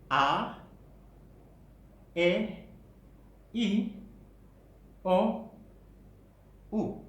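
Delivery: A, E, I, O, U each held and separated; deliberate, isolated vowels A, E, I, O, U; vowel articulation drill. Shown as a demonstration. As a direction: sound out each vowel A, E, I, O, U clearly, with long gaps. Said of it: "Coba kita lakukan".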